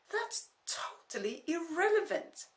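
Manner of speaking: slow, whispered dismissal. Acted. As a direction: hiss it under breath.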